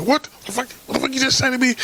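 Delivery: high-pitched indignant disbelief; mock outrage at what was just said; about to snap. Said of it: "I almost wanted to snap".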